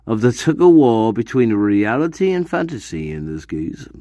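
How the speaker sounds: fast dramatic whisper. Acted. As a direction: hush it like a teaser. Dramatic whispered segment tagline.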